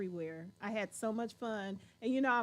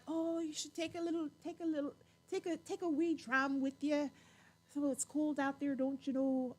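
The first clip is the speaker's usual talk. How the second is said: higher-pitched, lightly voiced Scottish lady; imitated Scottish hostess; 4 semitones higher than usual. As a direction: gently offer a dram, imitating a local hostess. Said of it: "and she was like".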